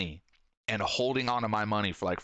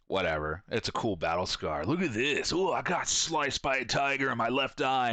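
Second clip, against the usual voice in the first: proud scar bragger. Retold or imitated. A guy bragging about his scar to friends, mock proud. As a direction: show off the scar like a war hero.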